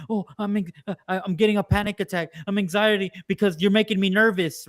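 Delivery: fast, fussy mock panic; mock panic attack. Mocking leftists claiming anxiety, in a fast fussy voice. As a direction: rattle it off like a fake panic attack. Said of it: "they're like".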